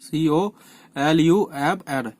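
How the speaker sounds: slow, deliberate spelling for students; spelling out letters. Shown as a demonstration. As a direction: spell column out slowly, letter by letter. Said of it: "English में बोलते हैं कॉलम".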